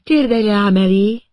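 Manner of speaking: a hint of an unhinged rival with a grudge; Vicky, lightly voiced mad woman. A narrator's reading.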